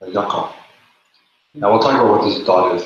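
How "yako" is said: Ba, ya, yako split with long pauses; syllable by syllable. Shown as a demonstration. Teacher splits the word into syllables, slowly. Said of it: "divide this up into syllables".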